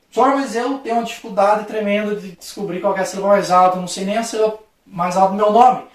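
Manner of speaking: mock pupil pleading with the teacher; pupil's complaint. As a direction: quote a student confessing a struggle. Teacher voices a struggling pupil.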